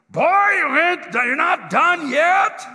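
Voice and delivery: loud, high, slowing bellow; booming farmer's shout. Retold or imitated. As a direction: bellow up the silo like a huge farmer. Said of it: "I hear this booming voice".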